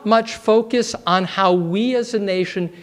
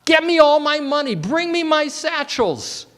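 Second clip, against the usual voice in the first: raised, fast barking at his wife; barked order; 8 semitones higher than usual. A narrator's reading. Husband barking at his wife for his money. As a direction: bark the order, impatient. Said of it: "he barked at his wife".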